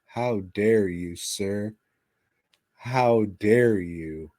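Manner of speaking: hammed-up indignant scolding, slowing down; mock outrage. Mocking the director for a cute name, mock indignation. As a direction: play at being offended, stretching the last line.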